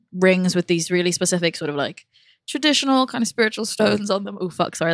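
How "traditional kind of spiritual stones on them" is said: burping the words. Real, not acted. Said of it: "that was a burp".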